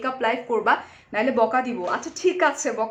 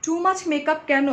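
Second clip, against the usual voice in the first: drawn out slowly and a bit louder; slow read-out question; 4 semitones higher, 5 dB louder, much slower than usual. Retold or imitated. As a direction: stretch out the viewer's jab. Reading a viewer question. (ধীরে টেনে প্রশ্ন পড়া)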